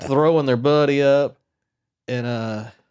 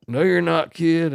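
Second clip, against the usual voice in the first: guard's dismissal; 6 semitones higher, slower than usual. Retold or imitated. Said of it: "And they're like".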